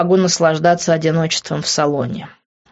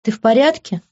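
a touch of concern, raised a little; worried question; 7 semitones higher, 4 dB louder than usual. A narrator's reading. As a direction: ask gently, worried for him. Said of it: "обеспокоенно спросив".

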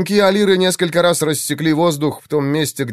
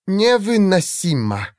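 through gritted teeth; 7 semitones higher, slower than usual. A narrator's reading. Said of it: "процедила Алира".

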